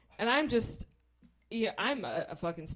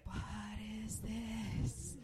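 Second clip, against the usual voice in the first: stunned whispered aside; softly mouthed bewilderment; bewildered whisper; 6 dB quieter, much slower than usual. Retold or imitated. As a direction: whisper it in baffled disbelief. Bewildered onlooker's thought.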